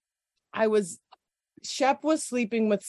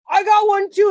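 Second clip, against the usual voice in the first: retold shout; 11 semitones higher, 9 dB louder than usual. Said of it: "And he goes".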